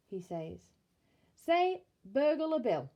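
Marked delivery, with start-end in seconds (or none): 1.3-2.9 high, loud and slow, spelling it out; coaxing teacher. Acted. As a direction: coax the baby to repeat it. Bill teaches baby to talk.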